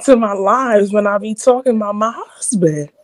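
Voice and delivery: put-on Southern accent; mock Southern accent; fake Southern accent. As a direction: play up a fake Southern twang. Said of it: "stop with this fake Southern accent".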